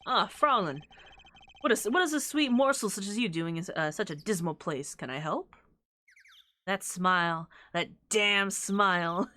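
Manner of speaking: put-on light German accent on a suave charmer; hint of a German accent, smooth. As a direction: woo her with a faint German accent. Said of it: "he's supposed to have a German accent".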